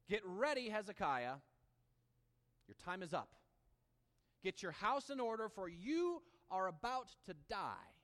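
loud, forceful proclamation of doom; God's stern message. Acted. Preacher voicing God to dying Hezekiah, loud and stern. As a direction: announce his death to Hezekiah with full force.

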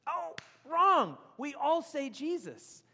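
hammed-up wrong-answer call; mock wrong. Real, not acted. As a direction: playfully catch the crowd out. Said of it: "correcting the crowd".

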